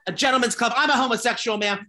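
prissy explanation, lightly put on; mock-proper customer. Retold call to the bank.

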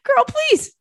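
high, squealing through laughter; cracking up. Real, not acted. Telling friends about a sheep shearer, cracking up. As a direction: barely get the words out for laughing.

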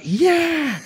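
high, drawn-out mock-eager yeah; over-keen retold yes. Actor agreeing to director's idea for his wife, comically over-keen.

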